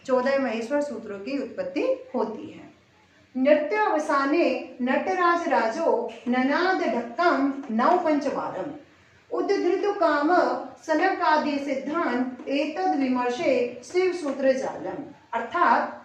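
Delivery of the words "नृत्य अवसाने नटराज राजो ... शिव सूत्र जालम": slow measured Sanskrit shloka recitation; verse recitation. Shown as a demonstration. Teacher reciting the shloka to her students, slow and measured. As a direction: recite the verse slowly, each word weighed.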